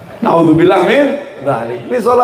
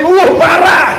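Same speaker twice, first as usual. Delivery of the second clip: high, rising "uh" of shock; appalled reaction; 10 semitones higher, 4 dB louder, slower than usual. Acted. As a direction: exclaim like a scandalized onlooker. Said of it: "kita ngomong".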